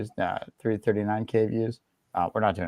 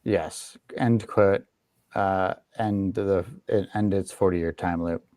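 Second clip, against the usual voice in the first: dictating. Shown as a demonstration. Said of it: "Say that again".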